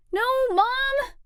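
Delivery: high, loud protest. Acted. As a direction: whine at mom to stop. Teen protesting camera.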